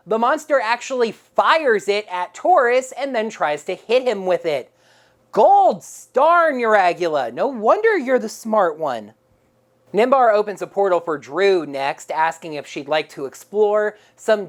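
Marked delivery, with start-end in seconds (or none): 5.3-9.1 sarcastic. Real, not acted. Sarcastic praise of dumb monster.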